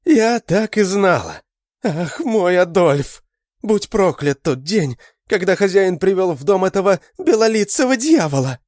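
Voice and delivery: mother-aunt cursing the foreign devil; anguished cursing. A narrator's reading. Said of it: "воскликнула Адель". (Адель в отчаянии проклинает)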